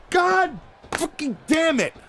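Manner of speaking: furious cursing shout; angry outburst. Real, not acted. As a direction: blow up in frustration. Exasperated outburst at Ken.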